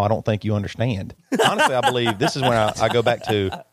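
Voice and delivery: laughing through tense words; half-laugh while serious; a nervous laugh in an argument. Real, not acted.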